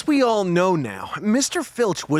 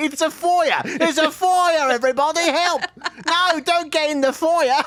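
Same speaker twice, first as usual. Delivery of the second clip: bad fake British accent, much higher pitch; 10 semitones higher than usual. Performer playing an American person, in a bad British accent. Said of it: "trying to do a bad British accent".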